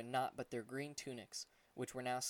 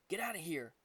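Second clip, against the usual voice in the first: yelling; 5 semitones higher than usual. Acted. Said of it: "Rainier yelled".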